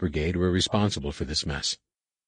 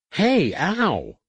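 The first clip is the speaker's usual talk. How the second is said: sudden pain; 11 semitones higher than usual. A narrator's reading. Ven attacked by worms.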